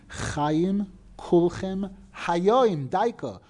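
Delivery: slow quote with Hayoim drawn out and leaned on; stress on hayoim. Shown as a demonstration. Teacher pointing students to the word Hayoim, slow stress. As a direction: dwell slowly on the word Hayoim. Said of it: "Look how the pasuk sticks in that word Hayoim".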